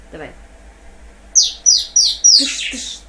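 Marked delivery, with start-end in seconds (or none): 1.3-3.0 gun sounds. Shown as a demonstration. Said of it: "первый раз лучше сделал".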